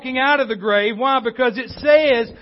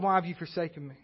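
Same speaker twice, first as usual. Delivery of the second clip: hushed plea to God; 4 semitones lower, 8 dB quieter, faster than usual. Retold or imitated. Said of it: "we know Jesus asked God".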